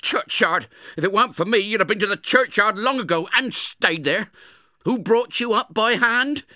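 high, loud furious scold; scolding sister. Acted. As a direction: tear into the boy for being out. Angry sister scolds Pip.

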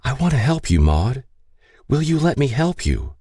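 lightly voiced tender appeal; gentle coaxing. A narrator's reading. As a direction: offer help to someone frightened. Catherine coaxes frightened confused woman.

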